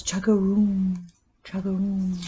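voiced, plain frog answer; answering croak. A faraway frog answers the first frog, voiced croak. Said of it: "A faraway frog answers".

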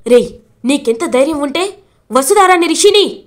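grab him by the collar and yell it; angry outburst. Acted. కాలర్ పట్టుకుంటాడు మహేంద్ర.

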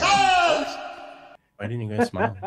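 high silly voice. Pretend. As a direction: stretch it out in a high squeak. Mock high whine at kids.

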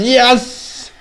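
high, loud joyful shouting; triumphant cheering. Real, not acted. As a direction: crow with victory. Survives the fight.

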